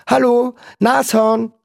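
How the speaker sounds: high, careful greeting; coaxing call. A narrator's reading. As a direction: call gently to a strange animal. Boy calls to the rhinoceros. (hoch und lockend gerufen)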